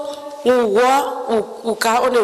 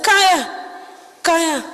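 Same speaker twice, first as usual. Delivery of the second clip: calling out; 5 semitones higher than usual. Retold or imitated. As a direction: call her over, then ease off. Soldier calling her over.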